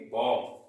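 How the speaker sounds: बॉम्ब ending on m, no b; teacher's model बॉम्ब, final b dropped; silent b. Shown as a demonstration. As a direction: say बॉम्ब as "bom". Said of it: "यहाँ पर भी silent होता है".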